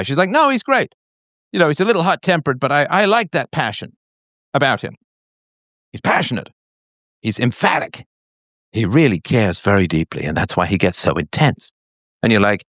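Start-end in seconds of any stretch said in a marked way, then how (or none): 0.3-11.7 put-on high defensive girlfriend voice, settling down; lightly voiced woman making excuses; mock girlfriend. Voicing the girlfriend defending him.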